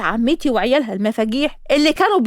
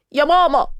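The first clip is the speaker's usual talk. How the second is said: crying call; 4 semitones higher than usual. Acted. Girl crying to her mom after being called an elephant, mock tearful. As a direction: whine it like a hurt kid. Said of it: "لقيتها عيطت".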